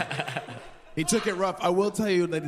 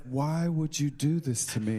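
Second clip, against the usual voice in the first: mock wounded cry; 3 semitones lower than usual. Roommate's hurt cry, imitated.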